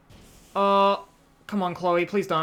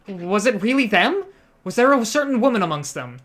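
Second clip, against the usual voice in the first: urgent questioning; 5 semitones higher, 4 dB louder than usual. Acted. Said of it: "She bombarded the question".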